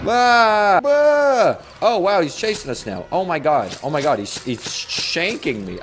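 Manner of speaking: panicked screams while chased; being chased. Real, not acted. Chased by masked guy.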